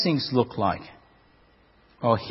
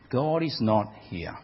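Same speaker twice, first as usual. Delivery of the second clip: whispered echo; 2 semitones lower, 5 dB quieter than usual. Acted. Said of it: "echo whispering".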